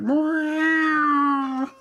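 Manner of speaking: high mewing cat voice; high mock meow; 1 imitating a meow. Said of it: "He was like".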